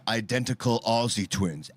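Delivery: ordinary delivery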